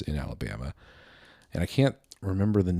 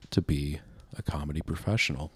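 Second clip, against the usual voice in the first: whisper; 3 semitones lower, 7 dB quieter than usual. Real, not acted. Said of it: "unvoiced whisper".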